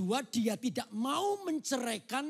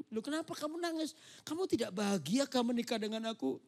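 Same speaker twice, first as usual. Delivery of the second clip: worried surprise; 3 semitones higher than usual. Acted. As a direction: ask why she cries, startled. Joseph sees Mary cry.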